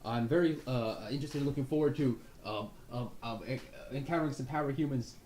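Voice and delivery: over-caffeinated eager recruit; excited. Acted. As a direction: Pepper gushing to the commander. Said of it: "he's all, like, excited".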